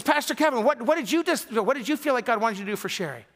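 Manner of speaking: eager question. Retold or imitated. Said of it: "somebody says".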